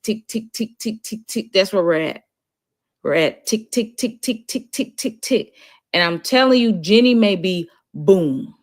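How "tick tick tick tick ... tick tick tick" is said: ticking. Shown as a demonstration. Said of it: "it's like a tick".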